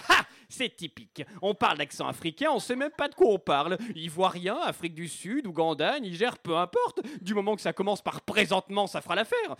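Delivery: indignant put-on African accent. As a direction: grumble as the aggrieved African accent, with lively swings of pitch. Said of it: "Je m'adresse maintenant à accent africain". (accent africain indigné)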